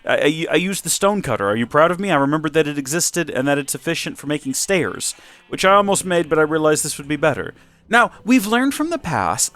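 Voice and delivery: lightly put-on home makeover host; a touch of TV host polish; HGTV presenter voice. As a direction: present it like a TV renovation show. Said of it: "It's my H G T V voice".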